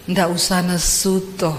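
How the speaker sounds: lightly voiced placating Javanese husband; husband's calm protest. Husband asks wife not to be angry, lightly acted calm. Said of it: "Dia datang gini".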